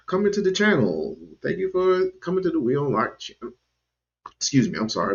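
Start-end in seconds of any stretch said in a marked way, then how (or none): 1.4-5.1 words catching on saliva; choking on spit. Real, not acted. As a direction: talk while choking on your own spit. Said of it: "I'm choking over my own spit".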